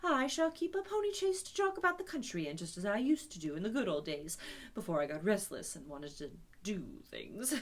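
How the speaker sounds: a lightly voiced, meek and eager Toad; humble Toad. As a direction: promise humbly, then grow chatty. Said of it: "very nicely and quite humbly".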